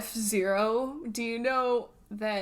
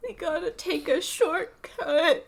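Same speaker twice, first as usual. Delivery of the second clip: slow, higher, mildly mopey; lightly voiced sad baby; sad Luigi; 5 semitones higher than usual. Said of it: "He sounds so sad".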